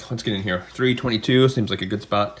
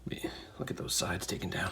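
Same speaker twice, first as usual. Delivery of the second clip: hushed, admiring whisper; soft whisper of admiration; 3 semitones lower, 13 dB quieter than usual. Acted. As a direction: breathe it like a secret over the spinner. Admiring the polished spinner.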